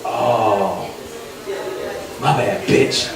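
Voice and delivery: put-on low, offhand drunk apology; drunk guy voice. Drunk guy brushes off the lady, offhand. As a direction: toss it off like a careless drunk. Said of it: "the black guy looked back and was like".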